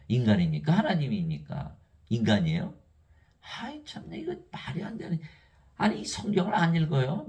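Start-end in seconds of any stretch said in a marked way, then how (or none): 3.6-7.3 exasperated. Real, not acted. Preacher scoffing at pastors who won't read, exasperated squeak. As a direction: scoff in disbelief.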